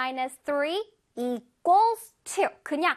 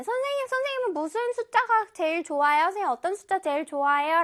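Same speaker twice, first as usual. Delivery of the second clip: curious student, higher and fast at first; 궁금해하는 학생; 3 semitones higher, much faster than usual. Acted. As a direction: play a pupil eagerly asking the teacher. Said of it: "우리 친구들이 선생님한테 이거 많이 물어본". (선생님께 질문하는 학생 말투)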